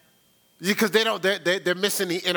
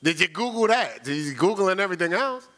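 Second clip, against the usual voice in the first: challenging questions; faster than usual. Retold or imitated. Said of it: "but I'm gonna say".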